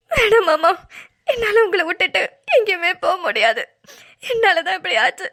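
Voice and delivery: pleading through tears; tearful plea. Acted. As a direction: beg him, voice wet with crying. Wife pleads tearfully, guilt.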